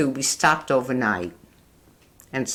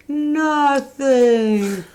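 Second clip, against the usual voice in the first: put-on innocent little girl; 11 semitones higher, 6 dB louder than usual. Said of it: "And she'd say".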